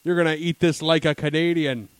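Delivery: hammed-up indignant Canadian refusal; Canadian server. Poutine server refuses a cheese-free order, mock-indignant Canadian. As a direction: refuse with a loud, drawn-out opening. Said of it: "they'd be like".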